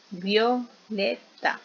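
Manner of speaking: "violeta" very slow as vio, le, ta; split into syllables. Shown as a demonstration. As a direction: say "violeta" one syllable at a time. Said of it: "Veamos la combinación". ("violeta" muy lento: vio, le, ta)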